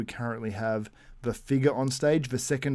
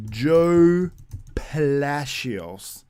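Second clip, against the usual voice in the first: announcer call-out; 5 semitones higher, 7 dB louder, much slower than usual. Acted. Announcing a bodybuilder's name.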